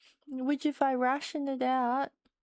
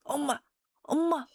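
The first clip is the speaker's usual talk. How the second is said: overwhelmed, crying through the words; choked-up tearful gasps; blubbering; 2 semitones higher, faster than usual. Real, not acted. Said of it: "I'm getting emotional".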